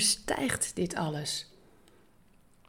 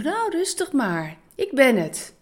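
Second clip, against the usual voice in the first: calm them down gently but firmly; 4 semitones higher, 4 dB louder than usual. Acted. Jesus calming his frightened disciples, gentle reassurance. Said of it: "zei Jezus tegen hen".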